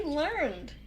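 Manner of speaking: "learned" as one syllable, lurnd. Shown as a demonstration. Streamer defending it as a real word, one-syllable "learned". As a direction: say "learned" with no second vowel. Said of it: "You can say".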